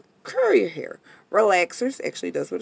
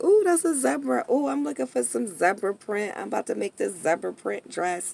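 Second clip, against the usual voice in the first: put-on excited girly; 3 semitones higher than usual. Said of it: "when I be like".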